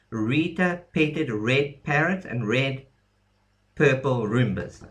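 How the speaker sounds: mnemonic rhyme. Shown as a demonstration. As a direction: recite the memory rhyme slowly and distinctly. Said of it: "made a little rhyme".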